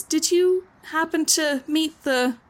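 gently curious woman asking about the sender; curious Karen. Acted. Karen questions the courier.

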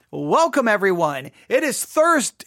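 bright radio host greeting, lifted on Thursday; retold broadcast opening. Host recalling how he opened each recording, announcer style. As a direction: imitate his own on-air welcome. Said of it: "I would start and say".

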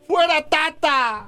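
slow, high drawn-out wail; mock drunken crying. Drunk fan lamenting Mexico's loss, mock crying. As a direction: drag it out in hammed-up despair. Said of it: "está llorando".

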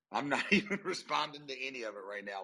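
laughing through the line. Real, not acted. Amused repeat to the hosts, laughing. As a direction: say it aloud with a chuckle.

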